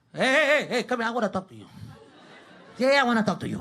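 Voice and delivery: mock stern dad warning; Latino dad voice. Dad threatening his sons before the game, pushy dad voice. Dad's pep talk before soccer.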